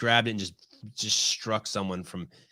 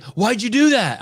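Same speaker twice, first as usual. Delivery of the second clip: pitched-up startled challenge from the stranger; high shocked demand; 13 semitones higher, 8 dB louder, slower than usual. Retold or imitated. Old guy at the beach demands an answer, shocked and high. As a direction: squeak it out, baffled and indignant. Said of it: "and the guy's like".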